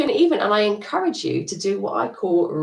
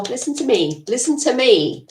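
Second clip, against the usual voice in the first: more insistent; 4 semitones higher, 4 dB louder than usual. Retold or imitated. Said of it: "a bit more insistent, a bit louder".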